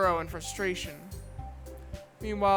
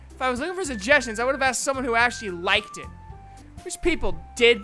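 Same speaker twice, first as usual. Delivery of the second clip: quick, louder comeback; indignant retort; 3 dB louder, faster than usual. Acted. Natsuki rebuffing Yuri's suggestions, indignant. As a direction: fire it back quickly, stung.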